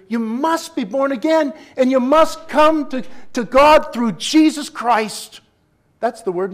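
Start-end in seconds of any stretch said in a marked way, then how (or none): 0.1-5.4 higher and louder, slowing on the end; emphatic gospel call. Real, not acted. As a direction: plead firmly, word by word.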